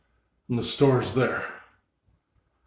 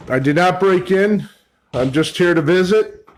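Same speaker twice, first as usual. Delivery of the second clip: calling out; 5 semitones higher, 3 dB louder than usual. Real, not acted. Addressing an absent Mister Phelps aloud.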